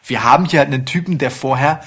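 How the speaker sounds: rushed rant without breathing; racing through it breathless; all in one breath. Real, not acted. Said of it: "ich muss kurz Luft holen".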